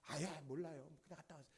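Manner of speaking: lightly acted irritated grumble; annoyed grandchild. Grandchild dodging grandmother's question, mildly annoyed. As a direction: drop away into a mock sulky brush-off. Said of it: "그 짜증 내는 사람".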